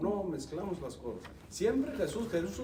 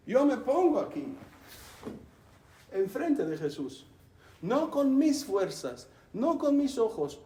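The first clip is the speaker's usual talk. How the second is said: fervent, higher, louder declaration; second saint speaking; 3 semitones higher, 3 dB louder than usual. Acted. Second saint tells a friend where he stands, fervently. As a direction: proclaim it like a devoted saint. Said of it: "El segundo santo dice".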